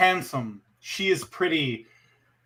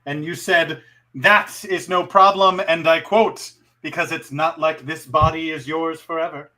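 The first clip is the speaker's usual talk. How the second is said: sultry narrator. Acted. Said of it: "in your sultry voice".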